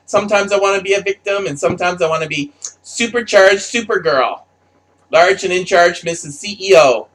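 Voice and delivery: lightly mock her indecision; mock indecisive victim. Mocking her indecision in character.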